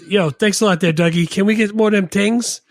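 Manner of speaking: high, excited Bronx-ish quote; lightly hammed-up movie quote; movie character voice. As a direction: ham up the goofy movie guy. Quoting movie character line.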